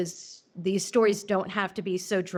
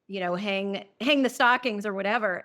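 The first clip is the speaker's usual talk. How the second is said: mock husband; 4 semitones higher than usual. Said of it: "when he was like".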